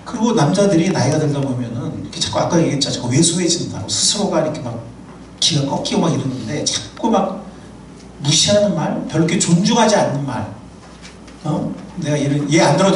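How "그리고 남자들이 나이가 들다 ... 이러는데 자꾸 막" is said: ordinary talk, nothing marked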